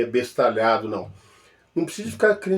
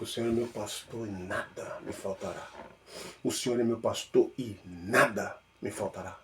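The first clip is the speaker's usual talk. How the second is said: much softer, low murmured repetition; meditative repeating; 4 semitones lower, 6 dB quieter than usual. Shown as a demonstration. Believer chewing on Psalm 23, soft low murmur. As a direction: mull the verse over under your breath. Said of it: "Aí você fica".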